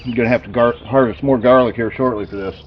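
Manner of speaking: talking through a mouthful of fish; chewing while speaking; mouth full. Real, not acted. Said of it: "Sorry, talking with my mouth full".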